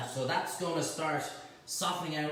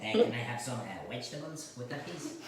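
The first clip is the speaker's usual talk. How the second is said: mock Spanish accent; 5 semitones lower than usual. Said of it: "a Spanish guy try to say vegetable".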